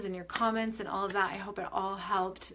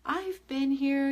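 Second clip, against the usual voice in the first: sweet gentle reply; 7 semitones higher, 5 dB louder, much slower than usual. Retold or imitated. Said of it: "she was so sweet".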